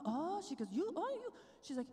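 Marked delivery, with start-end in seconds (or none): 0.7-1.3 higher, teasing sassy tone; mock sassy scolding; sassy woman. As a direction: playfully scold like a sassy friend. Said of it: "She was sassy".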